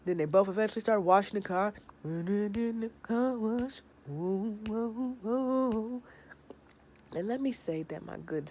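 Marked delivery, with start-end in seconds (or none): 2.0-6.0 mock car wash cries. Voicing them at the car wash.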